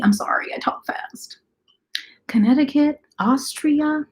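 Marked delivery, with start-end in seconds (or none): 0.0-1.4 sheepish unvoiced whisper; whispered apology. Admitting to viewers she talks fast, sheepish whisper. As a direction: confess it in a small whisper. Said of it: "and so I was like".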